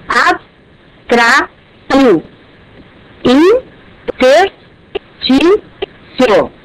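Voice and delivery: "abstrato" as abs-tra-to, "interstício" as in-ters-tí-cio, stretched; very slow syllable split. Shown as a demonstration. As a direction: drag each syllable out. (bem lento, abs-tra-to, in-ters-tí-cio)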